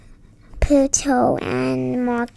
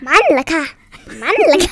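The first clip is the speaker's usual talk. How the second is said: southern Thai dialect; 3 semitones higher, 6 dB louder, much faster than usual. Shown as a demonstration. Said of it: "ลองให้พูด น้องพราวแหล่งใต้ได้ไหมคะ".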